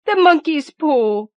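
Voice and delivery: very high, loud and slow wild cry; frantic wife crying out about the paw. A narrator's reading. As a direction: drag the words out in a frantic cry. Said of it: "she cried wildly".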